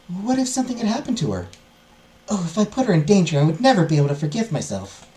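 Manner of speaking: lightly voiced anxious heiress; mildly troubled character voice; worried heiress. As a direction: fret to yourself as a story heroine.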